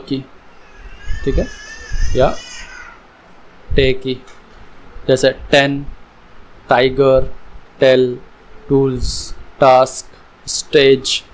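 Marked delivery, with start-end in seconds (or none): 5.5-11.2 spaced example words with a clear T, टेन to स्टेज; T sound shown. Shown as a demonstration. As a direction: model a firm ट in टेन, टाइगर, टेल. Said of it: "टी की sound यहाँ पे". (टेन, टाइगर में ट की साफ़ आवाज़)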